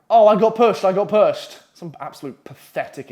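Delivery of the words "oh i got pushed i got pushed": high, loud mock-panicked blurt; panicked excuse. Boy caught hiding pleads with the man, panicked.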